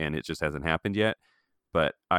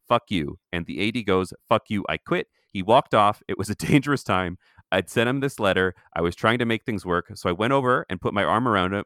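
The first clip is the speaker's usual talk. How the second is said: reading a quote aloud. Acted. Reading Clooney's Playboy interview aloud to cohost, animated reading. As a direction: read the quote out with some animation.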